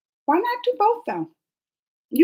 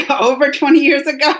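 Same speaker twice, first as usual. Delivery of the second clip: laughing disbelief, a bit louder; 6 dB louder than usual. Real, not acted. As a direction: laugh through the question.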